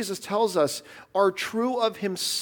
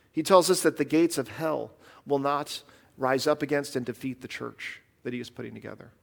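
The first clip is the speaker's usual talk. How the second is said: usual speaking voice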